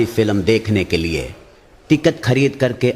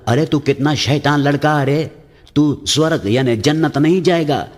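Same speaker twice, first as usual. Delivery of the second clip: put-on scolding old man; 5 semitones higher than usual. Old man scolds cheeky boy.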